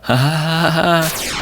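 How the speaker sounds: high, squeaky-pitched questions into a laugh; off-character Vulpix voice. Acted. Vulpix asking about a vision coming so soon, high-pitched. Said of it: "That's not how I normally talk".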